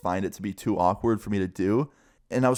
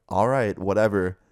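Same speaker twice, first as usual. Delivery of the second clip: retold dismissive attitude. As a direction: give a mildly dismissive brush-off. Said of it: "I don't like the attitude".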